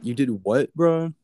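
high, loud incredulous rise on bro; shocked squeal at roommate who threw out the pet; disbelieving. Retold or imitated.

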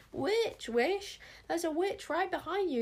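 high, loud warning cry; panicked yell. A narrator's reading. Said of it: "yelled Bodkin".

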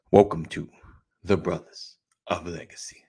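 announcer line fading to a whisper. Shown as a demonstration. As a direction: drop from host call to whisper. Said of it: "working on my announcer voice".

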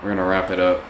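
talking with teeth clenched shut; words squeezed through closed teeth; through gritted teeth. Shown as a demonstration. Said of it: "you're gonna still do it with your teeth?".

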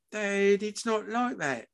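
high, soft protest; hurt son, quiet and high; pleading son. Acted. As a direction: plead gently with your dad. Son protests to angry father.

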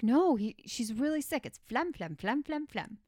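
high excited "phlegm" bit; mock sick-excuse voice; imitating Friends character. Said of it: "she's like".

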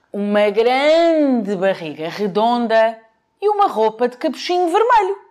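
wolf voice. Acted. Wolf describes Santa.

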